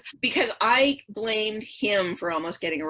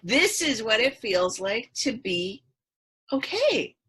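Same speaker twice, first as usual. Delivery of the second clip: higher and louder rush of amazed relief; euphoric exclamation; 5 semitones higher, 3 dB louder than usual. Retold or imitated. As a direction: marvel at the feeling as the voice climbs. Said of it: "And I was like".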